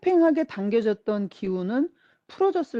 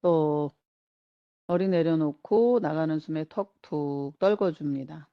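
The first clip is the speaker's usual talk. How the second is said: unhurried relaxation-guide voice, pausing between instructions; guided relaxation. Acted. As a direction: lead them gently through letting go. Leads a relaxation exercise. (차분한 이완 명상 안내)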